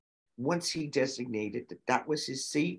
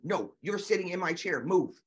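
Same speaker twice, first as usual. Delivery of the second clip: voicing the student; 5 semitones higher than usual. Student demands chair in story.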